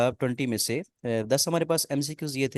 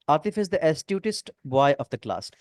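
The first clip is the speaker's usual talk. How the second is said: slow sentence read; much slower than usual. Shown as a demonstration. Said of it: "reading exam sentence aloud".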